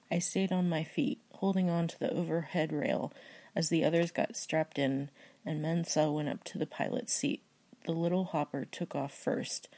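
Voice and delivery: steady book-reading voice; story narration. Acted. Reading a random book passage aloud for viewers, steady narration. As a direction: read the passage like an audiobook.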